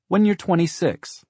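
high, slow, drawn-out motherly tease; warm teasing. A narrator's reading. Mother puts off her daughter's request, warmly teasing. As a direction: stretch it out sweetly, pitched high. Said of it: "Carla said warmly".

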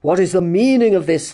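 loud, outraged demand; thundering. Acted. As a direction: boom it at the intruder. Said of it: "thundered Sir Joseph".

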